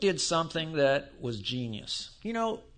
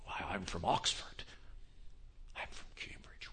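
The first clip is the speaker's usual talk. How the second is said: a lightly lowered, airy mock of a smug academic; mock Oxford snob; 10 semitones lower, 12 dB quieter than usual. Preacher mocking seminary grads, lightly put-on snobbish voice. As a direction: puff up like a proud Oxford graduate, then let it fade to a breath. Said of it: "pick up the prestige of the university".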